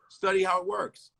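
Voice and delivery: "Study how it works" jumps way up in pitch; high-pitched emphatic repeat. Shown as a demonstration. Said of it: "repeats advice much higher".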